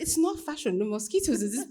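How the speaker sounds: high, loud, laughing reply; laughing protest. Retold or imitated. Answering the director about mosquitoes, laughing high and loud. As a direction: defend yourself while cracking up.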